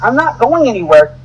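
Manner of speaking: strained under a painful grip; being squeezed hard. Real, not acted. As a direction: talk while your arm is squeezed. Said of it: "you're squeezing me even harder".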